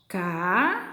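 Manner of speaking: CA, long pause, FÉ; syllable by syllable. Shown as a demonstration. Teacher shows the class how to separate syllables, syllable by syllable. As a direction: split "Café" slowly into two separate syllables. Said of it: "separação de sílabas, ó".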